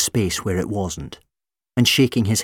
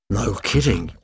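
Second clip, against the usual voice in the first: sarcastic. Acted. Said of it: "monster was being sarcastic".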